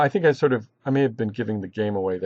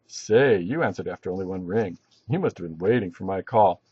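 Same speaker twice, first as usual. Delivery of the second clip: overdone flirty line, lower than the concerned take; 3 semitones lower than usual. Shown as a demonstration. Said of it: "they were being flirty".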